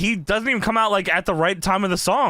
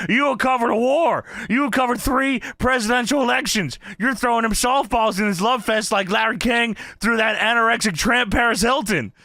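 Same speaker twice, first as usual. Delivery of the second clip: mildly raised imitation of a rant; emphatic mock tirade, only a little raised; 4 semitones higher than usual. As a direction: retell a wrestler's scornful tirade. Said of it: "J B L just rants".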